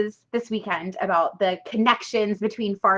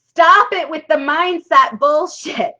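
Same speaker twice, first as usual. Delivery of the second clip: loud, slow, higher mock complaint; mock exasperation; 6 semitones higher, 8 dB louder, slower than usual. Coach mimicking skeptical viewers, loud exasperated mock. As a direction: play the fed-up skeptic, louder and drawn out. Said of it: "are like".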